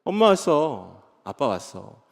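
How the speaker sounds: slow, softening to a hush; tender comfort. Acted. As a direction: soothe a frightened child. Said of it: "조금 더 따뜻하게".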